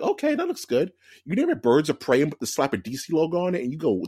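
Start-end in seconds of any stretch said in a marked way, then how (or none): 0.0-0.9 mock approval. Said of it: "you'll be like".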